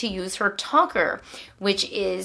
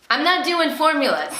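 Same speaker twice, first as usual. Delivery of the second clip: laughing while saying it, higher; 7 semitones higher, 4 dB louder than usual. Real, not acted. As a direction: chuckle through the words. Laughs at her own remark.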